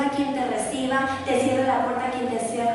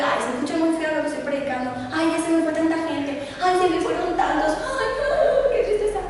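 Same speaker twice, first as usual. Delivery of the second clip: hammed-up weepy complaining preacher; mock whining; 3 semitones higher than usual. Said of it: "nunca lo vi lloriqueando".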